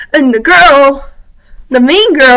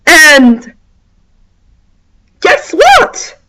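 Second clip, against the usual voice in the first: angry rant; 3 semitones higher, slower than usual. Real, not acted. Vlogger tells off whiny popular girls, angry slow rant.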